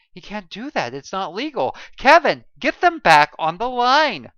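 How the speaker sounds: loud, high, urgent demand; urgent shout. A narrator's reading. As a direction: shout the order across the bridge. Sonia demands ship be recalled.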